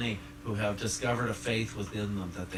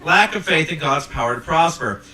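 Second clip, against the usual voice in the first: preaching emphasis; 5 semitones higher, 12 dB louder than usual. Real, not acted.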